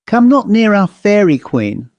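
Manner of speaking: high, scornful mock quote; bitter contempt. A narrator's reading. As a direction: sneer it out with contempt. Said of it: "in a tone of bitter contempt".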